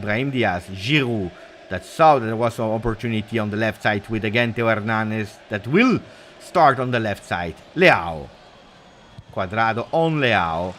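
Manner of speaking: steady running match commentary; live play-by-play. Acted. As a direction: call the game as it unfolds.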